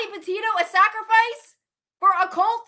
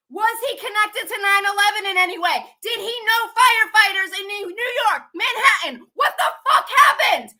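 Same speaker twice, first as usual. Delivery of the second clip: real agitated outburst, high-pitched; worked-up, frantic questioning; flipping out; 3 semitones higher than usual. Real, not acted. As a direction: demand answers at the top of your pitch, building to a shout. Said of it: "I'm flipping out right now".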